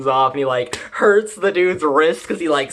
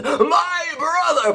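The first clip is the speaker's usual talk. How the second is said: high, slow, strained demonic cry; 12 semitones higher, slower than usual. Acted. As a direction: call out to him as a possessed demon. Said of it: "she's like a demon".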